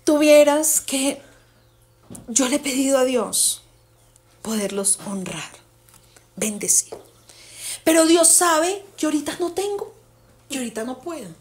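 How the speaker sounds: dramatic. Retold or imitated. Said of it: "todo dramático".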